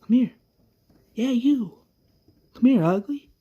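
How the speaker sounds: cocky taunt at a zombie; taunting a walker. Retold or imitated. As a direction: call the walker over with a sneer. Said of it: "Avesta's like".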